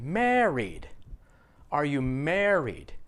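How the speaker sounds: "married" stretched with a strong first syllable, falling after; stress on MAR. Shown as a demonstration. Teacher showing what he thought the student said, stress on MAR. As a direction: slowly lean on the start of "married", then drop. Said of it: "I thought he said".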